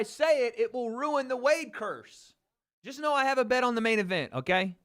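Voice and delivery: high, fast teasing sing-song. Acted. Streamer teasing chat about his secret bet, high quick playful.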